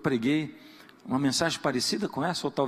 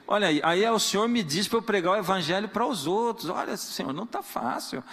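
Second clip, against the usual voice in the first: blunt honest prayer building to exasperation; frank complaining prayer; 5 semitones higher than usual. Shown as a demonstration. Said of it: "por que você não fala com Deus assim".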